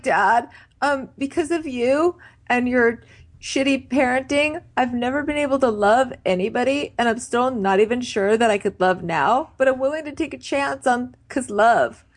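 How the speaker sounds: lightly voiced earnest young man; a hint of a teary son; mock Chase.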